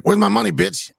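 high-pitched, mock-aggressive demand; acted demand. Retelling a party confrontation, acted high-pitched demand. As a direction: blurt it high like an angry party guest.

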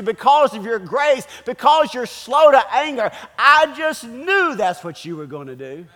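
acted-out tantrum, easing at the end; pitching a fit. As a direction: protest to the Lord, piling up reasons.

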